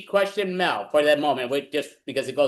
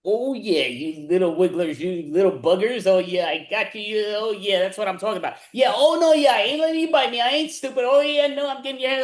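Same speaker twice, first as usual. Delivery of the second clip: wrestle the wriggling fish, thrilled; excited high shouting; 4 semitones higher than usual. Acted. Improv as piranha catcher.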